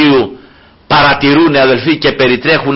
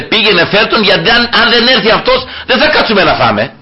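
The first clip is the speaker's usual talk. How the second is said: Samuel insisting, laughing; 6 semitones higher than usual. Retold or imitated. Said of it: "Λέει".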